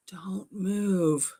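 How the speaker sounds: whispered warning, breath only; urgent whisper. Retold or imitated. Husband whispering so his wife keeps still. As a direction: keep it hushed and tense. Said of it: "And he says".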